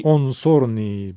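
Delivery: «انصرنی» slowly, starting with a rounded «او» sound; slow model reading. Shown as a demonstration. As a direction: say «انصرنی» with the «او» start and an even pace. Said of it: "باید بگیم".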